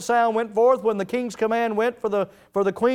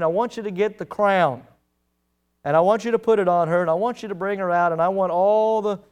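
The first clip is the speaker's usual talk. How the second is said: a proud king giving orders, building pace; king commanding. Acted. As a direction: rattle off the king's demands. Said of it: "Xerxes says".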